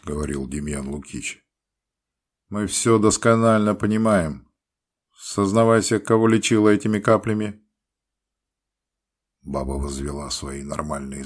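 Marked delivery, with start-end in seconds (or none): 2.5-7.6 loud, stern, wry-mouthed. A narrator's reading. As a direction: scold her from a crooked mouth. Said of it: "сурово".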